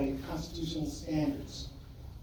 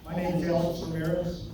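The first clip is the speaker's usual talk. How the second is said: muffled. Real, not acted. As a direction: voice dull and covered. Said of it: "you are muffled and we can't hear you".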